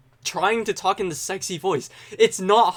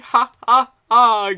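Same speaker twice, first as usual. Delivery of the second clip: loud, high, drawn-out fake laughter; exaggerated joke-selling laugh; mock laugh; 6 semitones higher, 7 dB louder, slower than usual. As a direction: ham up laughing at your own pun. Laughs at own bad pun.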